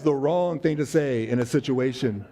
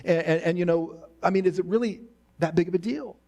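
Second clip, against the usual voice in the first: reassuring; 5 semitones higher than usual. Pretend. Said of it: "He tells Martha".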